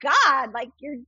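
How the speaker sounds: gushing yes, voice jumping up high; eager yes to Jesus. Retold or imitated. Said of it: "I'm like".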